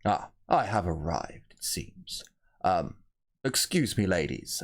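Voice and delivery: lightly voiced grand noble, unhurried; a hint of a self-important captain arriving; pompous rogue trader. GM voicing the rogue trader to the guards, mildly haughty.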